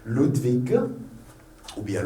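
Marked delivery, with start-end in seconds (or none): 0.1-0.8 "Ludwig" ending in a voiced G; final G sounded. Shown as a demonstration. Teacher listing the three correct endings, voiced G. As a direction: say "Ludwig" as LOOD-vig. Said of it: "Les trois prononciations sont correctes".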